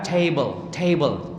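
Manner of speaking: table started on a clear Arabic ta; initial ta in table. Shown as a demonstration. Teacher drills table with ta at the start, crisp t. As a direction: lead table with a precise t. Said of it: "ta itu awalnya".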